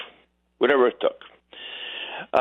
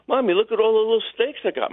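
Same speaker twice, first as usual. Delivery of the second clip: put-on child voice; 7 semitones higher than usual. Child Richie showing mom snakes.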